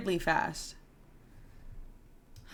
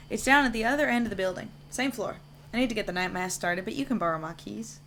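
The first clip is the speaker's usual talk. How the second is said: lightly voiced chatty janitor telling his story; hint of a folksy caretaker character; 2 semitones higher than usual.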